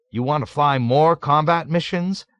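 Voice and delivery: high, loud startled question; a colonel caught off guard, gasping it out; gasped. A narrator's reading. Colonel startled by a volunteer, high gasping question. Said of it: "Colonel Cathcart gasped".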